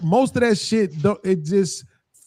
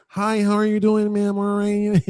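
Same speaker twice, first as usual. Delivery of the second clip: polite, slightly higher nerd imitation; 3 semitones higher than usual. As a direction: lightly put on a well-mannered nerd. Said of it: "when I tried to do the nerd thing".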